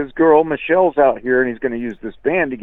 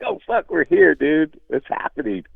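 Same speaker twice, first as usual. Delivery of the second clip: excited; 3 semitones higher than usual. Retold or imitated. Band arriving at video shoot.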